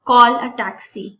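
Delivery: a slow teacher's demo read. Shown as a demonstration. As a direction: call a taxi said very slowly, word by word. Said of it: "sentence practice कर लेते हैं".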